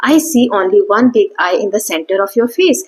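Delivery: slow, careful reading of the story; slow read-aloud. Acted. Teacher reading aloud slowly to students. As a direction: read each word slowly for the class.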